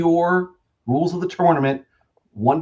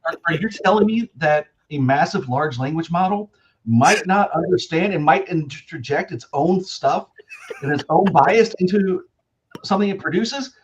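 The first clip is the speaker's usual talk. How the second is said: mock amazement, rising higher; sarcastic disbelief; 4 semitones higher than usual. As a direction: feign shock at the obvious.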